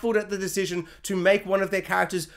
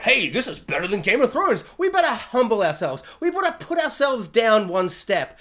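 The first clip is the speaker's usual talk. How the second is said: arrogant writers; 3 dB louder than usual. Retold or imitated. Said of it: "they arrogantly thought".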